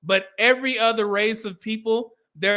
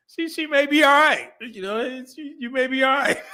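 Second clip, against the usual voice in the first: delighted surprise; 7 semitones higher than usual. Retold or imitated. Retold own delighted surprise.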